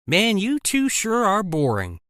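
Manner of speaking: slow mocking drawl through a yawn; bored, yawn the words out. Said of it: "Glenda mocked, yawning".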